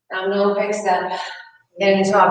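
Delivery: tired, slurred speech; words running together from fatigue; slurring words. Real, not acted. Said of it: "I'm slurring my words".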